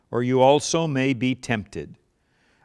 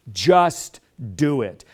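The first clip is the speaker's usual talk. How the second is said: call and response; much slower than usual. Shown as a demonstration. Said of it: "Can you say it with me".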